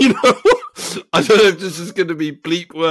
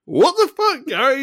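exasperated, higher-pitched retort; quoted film reply; 5 semitones higher than usual. Retold or imitated. Film friend answering Gary, mock exasperated. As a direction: throw it back in mock exasperation. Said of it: "And he goes".

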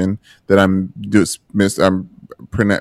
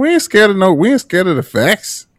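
mock defiance; 12 semitones higher than usual. Mock bold declaration.

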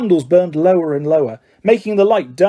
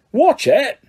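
sharp yell, much higher; roared; 8 semitones higher than usual. A narrator's reading. Hagrid pulls Ron away from his pumpkins, roaring. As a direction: bark a quick warning. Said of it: "Hagrid roared".

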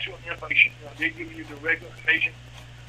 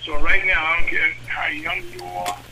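urgent; 10 dB louder than usual. Real, not acted. Urgent plea about the virus.

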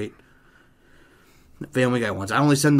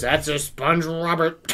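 imitating a drunk, slow and raised in pitch; slow mock-drunk declaration; wasted drunk; 4 semitones higher, slower than usual. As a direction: announce it like a sozzled friend, dragging it out. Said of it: "he's completely wasted".

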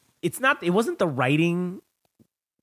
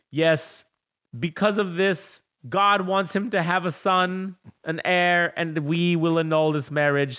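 solemn Pope; 3 semitones higher, slower than usual. Retold or imitated. The Pope annulling Napoleon's marriage, in a mock-solemn voice. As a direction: intone it like a hammed-up Pope. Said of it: "the Pope is like".

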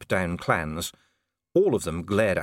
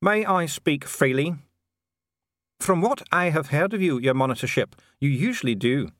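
higher-pitched, formal dwarf official; 7 semitones higher than usual. Acted. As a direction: speak as a high-voiced, formal dwarf functionary. Dee the dwarf official speaks.

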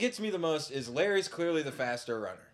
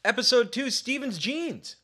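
loud announcement; 11 semitones higher, 9 dB louder than usual. Real, not acted. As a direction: announce the episode title to a caller. Announcing topic to the caller.

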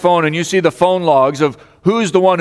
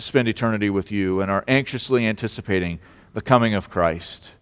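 prayer; 3 semitones lower than usual. Real, not acted. Pastor leading the church in prayer after a loss, reverent. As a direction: pray aloud in a subdued, reverent voice.

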